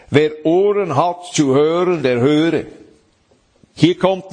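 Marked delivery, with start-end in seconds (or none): 0.1-2.7 a lightly raised proclaiming call. Acted. Jesus calling out to the crowd, a mildly raised call. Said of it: "rief er aus".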